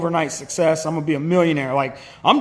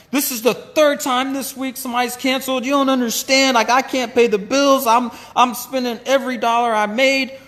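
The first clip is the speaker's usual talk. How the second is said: raised, panicky rush of complaints; pleading in a higher, strained voice; freaking out; 4 semitones higher than usual. Retold or imitated. Husband panicking to wife about canceled jobs, higher and strained. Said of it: "and I start freaking out".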